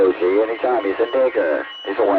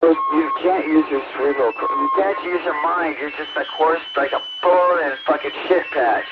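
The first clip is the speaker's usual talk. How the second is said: real heated rant, voice pitched up; agitated yelling; 4 semitones higher than usual. Real, not acted. Caller insulting the host over the line, agitated yelling. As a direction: rail at them, pitch jumping up. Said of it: "you don't need to yell and talk fast".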